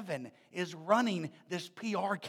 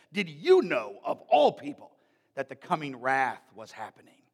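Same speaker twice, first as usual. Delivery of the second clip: mild scolding; 7 semitones lower, 4 dB louder than usual. Retold or imitated. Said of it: "he took him to task".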